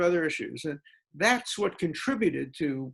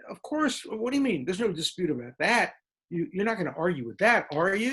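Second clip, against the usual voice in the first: mock incredulity; 3 semitones higher than usual. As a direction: play the smug peer who can't believe you'd doubt it. Mocking peers' assumed certainty.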